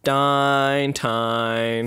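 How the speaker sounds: drawn-out Northern Irish singing; Northern Irish accent. Acted. Host mimics a band covering a song, Northern Irish accent. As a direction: croon it long in Northern Irish. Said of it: "but in a Northern Irish accent".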